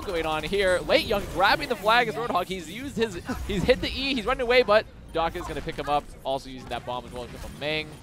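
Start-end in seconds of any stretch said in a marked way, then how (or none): 0.9-6.0 quick hype commentary; excited call. Real, not acted. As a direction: lift the energy for the brawl. Brawl and flag grab.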